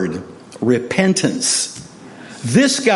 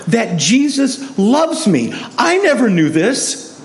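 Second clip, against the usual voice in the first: high, slow, imitated overwhelmed outburst; retold tearful wonder; 7 semitones higher, slower than usual. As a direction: retell his tearful discovery, pitched high. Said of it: "and he's crying".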